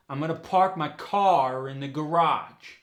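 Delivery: New York accent, R kept in CAR before "in"; linking R. Shown as a demonstration. Coach showing New York car in the garage, R still there. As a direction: link car into in with an R. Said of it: "you keep the R in there".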